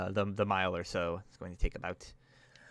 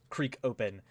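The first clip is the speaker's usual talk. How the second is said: ordinary talk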